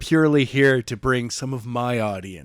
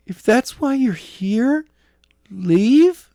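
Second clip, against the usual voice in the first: angry dismissal; 10 semitones higher, 6 dB louder, much slower than usual. Acted. Jenna snaps at Skylar.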